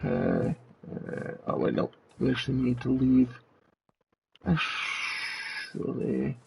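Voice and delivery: distorted robot demon voice filter. Real, not acted. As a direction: talk through a robot demon voice effect. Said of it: "There's the demon voice for the next ten minutes".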